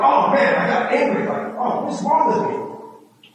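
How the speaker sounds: high-pitched exasperation, lightly acted; imitating a frustrated inner voice; mock self-reproach. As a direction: act out being fed up with yourself. Acts out frustration at himself.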